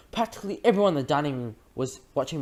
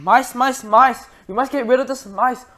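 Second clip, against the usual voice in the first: much higher, much louder screaming; frantic yelling; 11 semitones higher, 10 dB louder, slower than usual. A narrator's reading. Everyone in the room yelling at the mice. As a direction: shriek it in panic. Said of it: "everyone was yelling".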